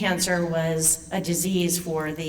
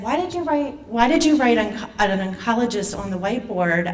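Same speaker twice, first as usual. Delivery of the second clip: retold alarmed question, higher and fading; startled question; 4 semitones higher, 3 dB louder, faster than usual. Patient asking the man at her whiteboard, alarmed. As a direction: replay the shock of seeing that word. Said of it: "And I said".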